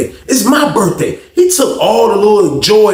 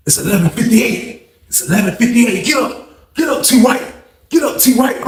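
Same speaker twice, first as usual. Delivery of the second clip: higher, insistent imitation of a cellmate; excited wake-up call; 4 semitones higher than usual. Excited cellmate waking his sleepy friend before midnight, urgent mock wake-up. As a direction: rouse someone eagerly, pitch climbing.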